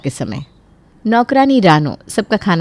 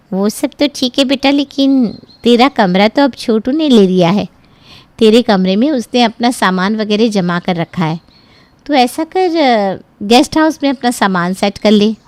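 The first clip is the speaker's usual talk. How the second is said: a hint of an older mother, matter-of-fact; gently putting her daughter off; lightly voiced mother; 4 semitones higher than usual. Mother telling her daughter to use the guest room, lightly voiced.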